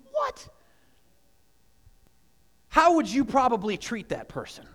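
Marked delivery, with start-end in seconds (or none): 0.1-0.5 sudden high-pitched what; shocked what. Retold or imitated. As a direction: blurt it out in disbelief. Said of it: "You're like".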